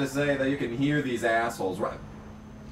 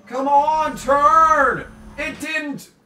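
high, loud urging at the screen; begging the car to turn in time; urgent pleading; 10 dB louder, much slower than usual. Real, not acted.

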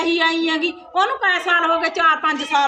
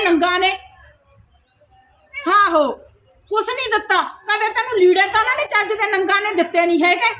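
irritated tirade in a raised pitch; nagging, dismissive mother-in-law; contemptuous scolding; 3 semitones higher than usual. Acted. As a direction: berate her with open scorn. Berates her and her parents.

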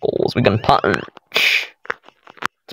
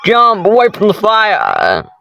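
raised pitch, drawn-out urgent plea; urgent call; 7 semitones higher than usual. Real, not acted. Player steering Tails away from fire, urgent call. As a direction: urge the character on, stretched out. Urging character past fire.

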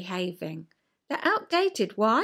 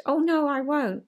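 defiant mock refusal; light childish defiance; rebellious child refusal; 4 semitones higher than usual. Rebellious child answering parent, light defiant no. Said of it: "in answer to parent".

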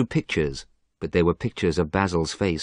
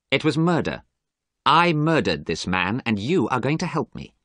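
grim confession; 7 semitones higher than usual. A narrator's reading. Dorian confesses murder.

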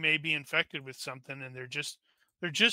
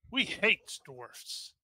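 drawn-out, higher creature grumble; Smeagol; 4 semitones higher, much slower than usual. Acted. Goblins see a charging dwarf, lightly voiced Smeagol. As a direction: stretch it slowly in a lightly put-on creature voice. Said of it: "why are they suddenly talking like".

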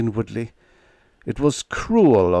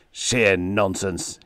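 angry; much slower than usual. Acted. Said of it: "he repeated angrily".

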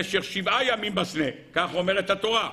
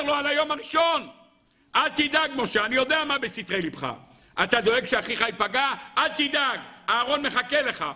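urgent reassurance; 5 semitones higher than usual. Acted. Preacher imagines God reassuring.

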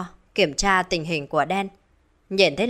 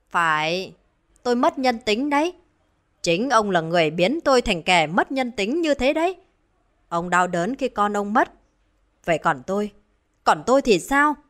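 bitter retort; 2 semitones higher than usual. Acted. Wife blames husband for her cruelty, bitter retort. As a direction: throw the blame back, pitch lifted.

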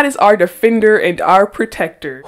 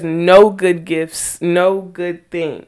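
"good" leaned on in slow, deliberate phrases; slow emphasis on "good"; stress on good; much slower than usual. Shown as a demonstration. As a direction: draw out each phrase to underline "good". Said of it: "I want to emphasize the word good".

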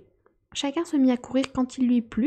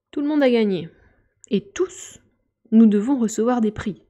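loud proclamation; 7 dB louder than usual. A narrator's reading. Dodo declares all winners, loud and grand. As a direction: proclaim it to everyone.

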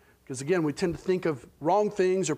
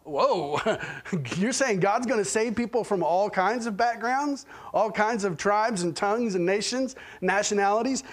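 imitating a shocked listener, raised pitch; shocked Nicodemus; 3 semitones higher than usual. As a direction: play mild, incredulous shock. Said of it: "would have been shocking to Nicodemus".

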